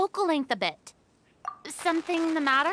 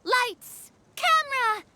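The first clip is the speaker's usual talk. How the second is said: director's call; 6 semitones higher than usual. Acted. Director calling a film take.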